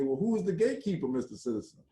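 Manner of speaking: retold Aunt Esther. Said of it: "Aunt Esther asked".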